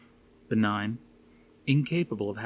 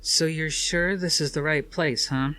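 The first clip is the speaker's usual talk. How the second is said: higher woman's voice, slowing at the end; Suzanne's voice; 7 semitones higher than usual. A narrator's reading. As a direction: voice Suzanne, uneasy.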